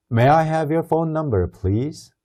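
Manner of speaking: slow, polite question with please rising; teacher's slow model line; slow model reading. Shown as a demonstration. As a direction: say it slowly so they can copy. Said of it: "한번 따라서 읽어봅시다".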